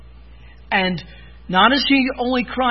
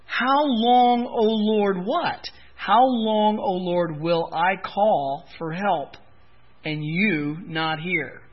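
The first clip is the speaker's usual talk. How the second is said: cry out; slower than usual. Retold or imitated. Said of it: "he cries out".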